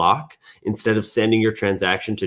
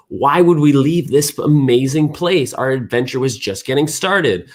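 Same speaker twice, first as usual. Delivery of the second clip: protesting astronaut; 5 semitones higher, 3 dB louder than usual. Acted. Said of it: "the astronaut's like".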